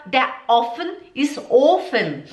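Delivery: slow learner's "der offen ist Ofen"; short O in "Ofen", long O in "offen"; mixed-up vowels. Shown as a demonstration. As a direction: wrongly swap the two O lengths of "Ofen" and "offen". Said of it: "Você fala".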